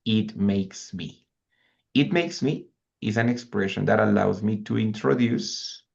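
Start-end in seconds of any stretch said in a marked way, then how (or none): 0.1-1.3 slow model phrase. Shown as a demonstration. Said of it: "we have an extra expression".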